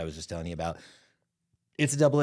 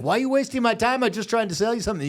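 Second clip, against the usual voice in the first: much higher, louder whiny scammer complaint; mock angry scammer; 14 semitones higher, 6 dB louder than usual. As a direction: squeal it like the outraged scammer.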